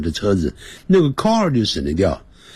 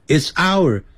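不完整句子; 7 semitones higher than usual. Shown as a demonstration. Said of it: "你句子没有完成啊".

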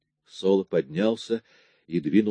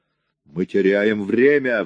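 roaring; 4 dB louder, slower than usual. A narrator's reading. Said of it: "взревел Соло".

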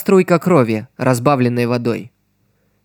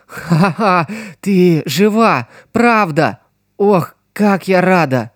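slow, higher, overjoyed relief; happy tears; 5 semitones higher, slower than usual. Acted. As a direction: laugh through tears of joy. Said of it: "расплакался от счастья". (со слезами радости)

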